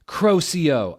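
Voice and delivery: hammed-up wizard shout; shouted spell. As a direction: spell shouted high and loud. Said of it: "I shouted".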